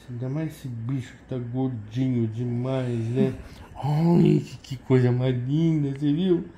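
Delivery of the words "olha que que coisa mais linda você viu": louder, higher gushing over a cute animal; rising delight, coo it up to the pet; excited pet talk. Real, not acted.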